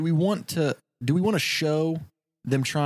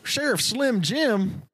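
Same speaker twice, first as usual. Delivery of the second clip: drawn-out mocking nickname; slow teasing nickname; 8 semitones higher, much slower than usual. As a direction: stretch the nickname slowly. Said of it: "And they go".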